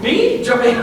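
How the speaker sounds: jumpy denial. Acted. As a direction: act caught off guard, too innocent. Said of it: "Seem a little jumpy".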